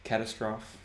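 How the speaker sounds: CATASTROPHE as "CAT-a-strawf"; Catastrophe in three syllables, ending "-strawf"; wrong pronunciation. Shown as a demonstration. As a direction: stress the first syllable of Catastrophe, silent final e. Example of alternative pronunciation.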